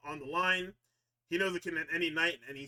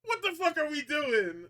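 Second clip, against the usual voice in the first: excited yell; 10 semitones higher, 4 dB louder, slower than usual. Real, not acted. Continued hyped yelling.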